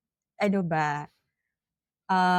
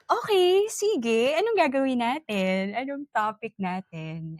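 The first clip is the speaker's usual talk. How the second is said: eager quoted reply; 3 semitones higher than usual. Retold or imitated.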